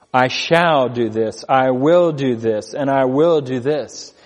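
slow, measured "I shall", "I will"; emphatic shall and will. Shown as a demonstration. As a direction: declare each promise with weight. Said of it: "I underline those words".

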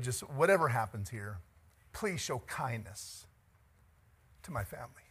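hushed dying plea of a friend; quiet plea. Acted. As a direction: beg softly for your family. Jonathan's plea.

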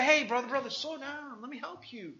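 calming a friend. Retold or imitated. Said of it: "come along and say".

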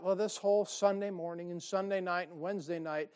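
mildly voiced grumbling thought; a hint of a weary churchgoer complaining; lightly voiced tired congregant's inner gripe. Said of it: "you probably have never thought".

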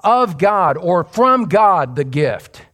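"Of God" and "From God" slow and strong; emphatic "of God". Shown as a demonstration. Preacher reads out the original text, "God" stressed. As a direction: punch "God" in both readings. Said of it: "It is emphatic".

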